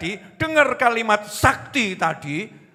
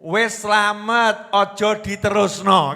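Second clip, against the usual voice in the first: calm advice; 2 semitones higher, 3 dB louder, slower than usual. Retold or imitated. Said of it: "terus saya ucapkan".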